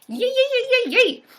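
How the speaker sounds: high, squealed string of cheers; excited cheer. Real, not acted. Streamer hears Sarah got her hat, high excited cheer.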